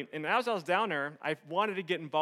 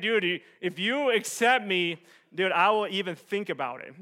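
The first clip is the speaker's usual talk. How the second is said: cocky, arrogant; 4 semitones higher, 9 dB louder than usual. Retold or imitated. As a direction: act like you're doing them a favor. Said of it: "Pretty much saying".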